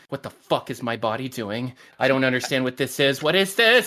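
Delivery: retold mild panic, rising at the end; freaking out. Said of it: "I was freaking out".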